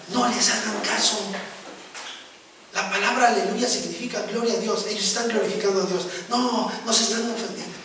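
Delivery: lightly voiced mother calming her sons; a hint of mom settling the kids down; mother's gentle scolding. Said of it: "mi mamá nos regañaba y decía".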